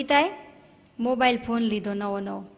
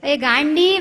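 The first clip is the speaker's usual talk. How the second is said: higher, louder angry scolding; furious husband; 5 semitones higher, 7 dB louder than usual. Retold or imitated. Husband scolds wife over her wrong English, angrily shouting. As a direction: snap the correction at her in a rage. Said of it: "husband એટલા ગુસ્સે થઈ ગયા".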